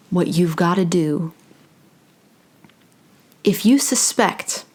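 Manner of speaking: measured delivery with long pauses; channeled spiritual message. Acted. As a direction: speak as if receiving each phrase, unhurried.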